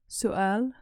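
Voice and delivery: سؤال with a rising question tune; Somali word for question. Shown as a demonstration. Teacher modeling سؤال with a lifted end. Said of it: "So you can ask".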